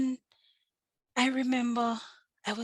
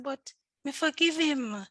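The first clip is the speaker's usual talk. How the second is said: indignant protest; 7 semitones higher, 6 dB louder than usual. Retold or imitated. Retold protest, outraged.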